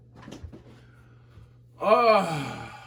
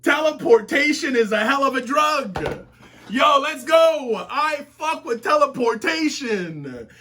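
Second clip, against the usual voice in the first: hyped; 4 semitones higher than usual. Real, not acted. Hyped at Gastella's entrance.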